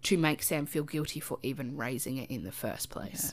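soft near-whisper. Real, not acted. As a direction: drop to a whisper. Explaining gaslighting, drops to whisper.

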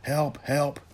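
mock phone user crying for help; mock yelling. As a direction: fake panic shout. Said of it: "they're gonna start yelling".

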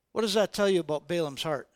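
ordinary delivery

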